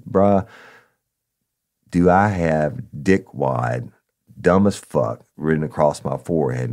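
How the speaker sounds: mock angry cop. Cop confronting informant angrily.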